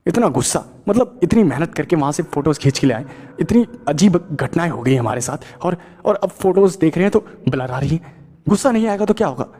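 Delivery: mild exasperated rant rising in pitch; frustrated rant. Acted. Karan venting to Sahil about the blurred photos, mildly angry. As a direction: vent the frustration, building up.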